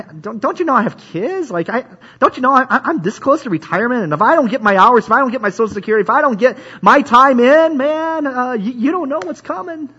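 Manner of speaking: lightly hammed-up voice of a busy person making excuses; whiny excuse-maker. Mocking a busy churchgoer's excuses.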